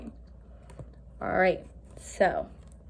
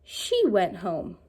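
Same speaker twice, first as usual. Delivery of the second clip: slow reading aloud; slower than usual. Shown as a demonstration. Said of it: "And now it says".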